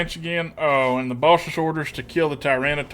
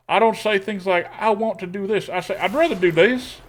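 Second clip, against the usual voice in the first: twangy accent; 3 semitones higher than usual. Shown as a demonstration. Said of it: "talking in a voice like this".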